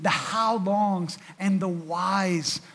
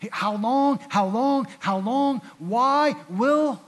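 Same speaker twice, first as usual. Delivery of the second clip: louder, higher repeated "How long?"; anguished cry; 5 semitones higher, 6 dB louder, slower than usual. Acted. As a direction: cry out the question to God. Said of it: "He's, he's".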